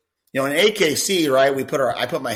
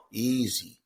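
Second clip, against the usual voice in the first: soothing easy; 5 dB quieter, slower than usual. Shown as a demonstration. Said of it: "And I'll go".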